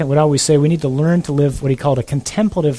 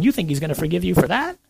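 mock accusing evil voice; 7 semitones higher than usual. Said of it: "this little voice is over here saying".

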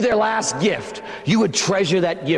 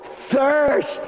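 higher, called out thirst; crying out; 5 semitones higher than usual. Acted. Jesus on the cross crying out his thirst. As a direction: cry it out from the cross. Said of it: "cries out".

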